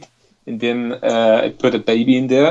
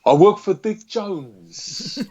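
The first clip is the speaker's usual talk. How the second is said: slow, lightly voiced henchman; quoting a film line; 5 semitones higher, much slower than usual. Quoting a Robocop henchman for the hosts, slowly and lightly voiced. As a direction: drawl it out like the movie villain. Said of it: "I guess it's that".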